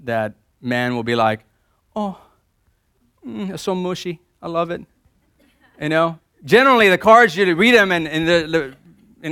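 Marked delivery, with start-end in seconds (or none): 2.0-4.8 mock gushing man. Mock man reading mushy card.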